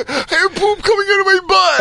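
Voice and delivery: hammed-up frantic shout; mock panicked yell. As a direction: panic on the toilet.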